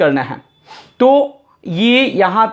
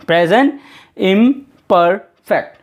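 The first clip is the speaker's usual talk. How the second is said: slow dictation. Shown as a demonstration. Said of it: "तो confuse मत हो जाइएगा".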